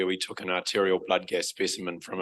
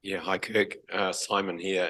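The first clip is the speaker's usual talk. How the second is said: croaky voice. Real, not acted. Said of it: "Excuse my croaky voice".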